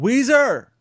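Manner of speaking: high, loud yell of a name; sudden high-pitched holler; screamed out. Retold or imitated. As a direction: scream out to a friend in alarm. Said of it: "I had to scream out".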